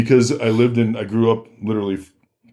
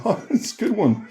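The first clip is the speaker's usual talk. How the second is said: mock comeback; 11 semitones higher, 4 dB quieter than usual. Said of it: "I was just like".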